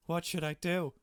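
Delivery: high, loud plea; exasperated cry. Real, not acted. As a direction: throw up your hands.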